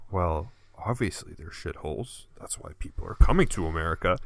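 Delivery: mock bigot. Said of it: "your response is like".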